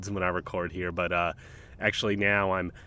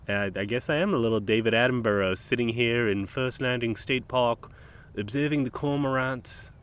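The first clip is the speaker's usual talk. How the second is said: a mock British nature-documentary narrator accent, lightly put on; a weak British accent in the manner of David Attenborough; a hammed-up, half-hearted British accent; terrible British accent. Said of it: "That's a terrible, terrible British accent".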